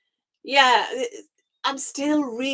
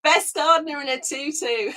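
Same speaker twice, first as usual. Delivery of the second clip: laughing; 3 semitones higher than usual. Real, not acted. Joking, laughing.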